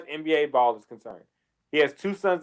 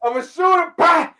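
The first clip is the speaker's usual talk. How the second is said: mock trash talk; 10 semitones higher, 5 dB louder than usual. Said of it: "Sterling popped out ... and said".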